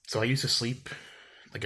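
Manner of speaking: usual speaking voice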